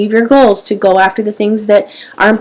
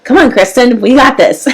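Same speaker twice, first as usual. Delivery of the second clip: fired-up self pep talk; 2 semitones higher than usual. Real, not acted. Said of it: "I'm starting to get fired up".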